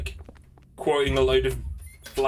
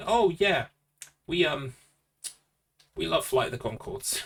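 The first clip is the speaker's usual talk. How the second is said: imitating a fan; 4 semitones higher than usual. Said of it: "everyone saying".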